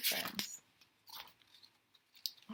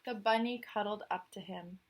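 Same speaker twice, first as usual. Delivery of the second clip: story narration. A narrator's reading. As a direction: read the tale out to the listener. Reads the picture book aloud.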